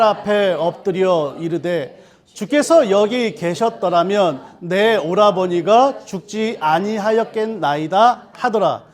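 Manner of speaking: measured, solemn reading of scripture; slow scripture reading. Acted. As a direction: read the passage aloud slowly and deliberately. Congregation reads scripture aloud.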